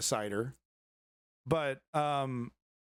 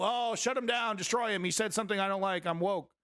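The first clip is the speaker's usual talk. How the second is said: mock woke liberal; 3 semitones higher than usual. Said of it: "woke, woke liberal".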